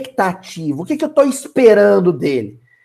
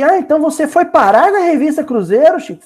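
Emmanuel's voice; 6 semitones higher, faster than usual. Acted. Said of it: "Aí o Emmanuel falou assim".

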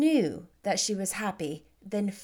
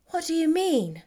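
a gentle elder sister refusing to believe it; Jane, incredulous; 7 semitones higher than usual. Acted. Jane puzzled.

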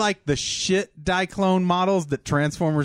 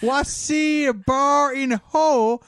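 insurance adjuster; 7 semitones higher than usual. Pretend. Friends riffing, playing a pompous adjuster voice. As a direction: ham up a pompous claims inspector.

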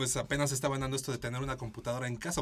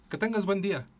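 fake polite; 6 semitones higher, 4 dB louder than usual. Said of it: "Pero es así como, "Chinga tu madre".

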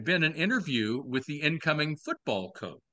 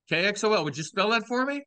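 mock caller voice; 8 semitones higher, faster than usual. Mimicking the caller's question.

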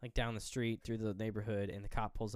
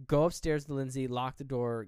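urgent order; 5 dB louder than usual. Retold or imitated. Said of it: "She turns around and goes".

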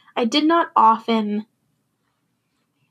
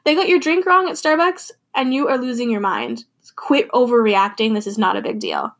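mock friend. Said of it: "your friend's like".

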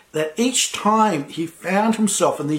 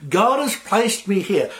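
God has placed me here spoken slowly, each word weighed; Joseph's assurance spoken slowly; slow, deliberate; 3 semitones higher than usual. Retold or imitated. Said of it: "And he's saying".

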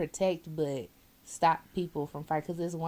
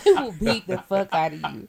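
loud threat; 9 dB louder than usual. Retold or imitated.

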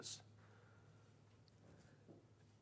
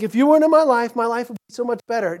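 higher, louder, then rushing to the end; resentful complaint; 5 semitones higher, 10 dB louder, faster than usual. Retold or imitated. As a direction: blurt it out like a resentful parent. Parent voiced lamenting their child.

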